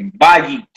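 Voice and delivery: "bayit" with emphasis on the first syllable, ba; stress on BA in bayit. Shown as a demonstration. Teacher showing students where the accent mark falls, "bayit" stressed on BA. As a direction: lean on the "ba" of "bayit", drawn out. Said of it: "put emphasis on that, that ba".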